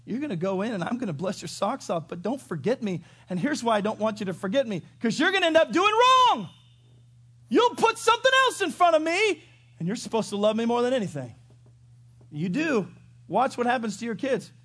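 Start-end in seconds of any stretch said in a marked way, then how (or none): 0.0-11.3 God warning. Retold or imitated. Preacher voicing God warning his people, building to a shout. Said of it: "God said".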